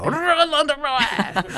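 mock threatening yell. Imagined angry leader on phone.

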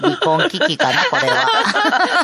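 high, laughing tease, drawn-out at the end; teasing through laughter; laughing joke. Real, not acted. A host teases the guest about a marital spat, laughing. Joking about haircut fight.

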